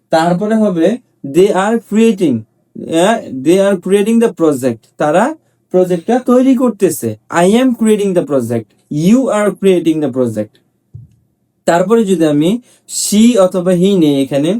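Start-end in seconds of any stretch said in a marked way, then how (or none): 1.3-2.4 slow, spaced-out drill sentences. Shown as a demonstration. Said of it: "teacher drills example". 3.5-4.8 slow, spaced-out drill sentences. Shown as a demonstration. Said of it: "teacher drills example". 7.3-10.5 slow, spaced-out drill sentences. Shown as a demonstration. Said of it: "teacher drills example".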